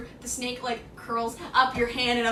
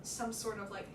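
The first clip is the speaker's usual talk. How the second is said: measured, softer scene-setting; game master narration; 7 dB quieter than usual. Acted. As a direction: describe the scene quietly, unhurried.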